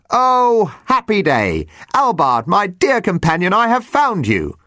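high, bursting with delight; joyful cry. Acted. Jumper finds dying Albard, crying out in shrill joy. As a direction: gush like you've found a long-lost friend. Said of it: "cried out in joy".

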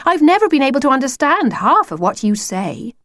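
put-on high, mildly exasperated girl; groaning. Lucy complains she cannot follow the wolf, mild groan. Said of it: "groaned Lucy".

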